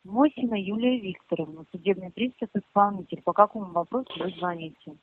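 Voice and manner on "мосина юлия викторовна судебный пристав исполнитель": repeated louder for the caller. Real, not acted. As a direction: raise your voice so they hear. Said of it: "Погромче, пожалуйста, ещё раз".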